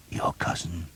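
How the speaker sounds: a faint, soft whisper. A narrator's reading. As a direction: breathe the words out weakly. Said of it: "Father Ralph whispered".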